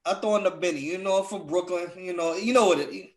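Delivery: badly put-on Brooklyn accent; terrible New York accent. Claiming Brooklyn roots to friends, terrible New York accent. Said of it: "That's a terrible New York accent".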